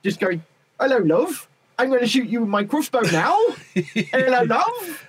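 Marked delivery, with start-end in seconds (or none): 0.8-3.4 high, chirpy West Country voice; cheery rural West Country accent. Retold or imitated. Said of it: "I've just got this image of Natasha in my head". 3.7-5.1 very high sing-song West Country voice; lilting West Country greeting; West Country accent. Retold or imitated. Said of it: "image of Natasha in my head".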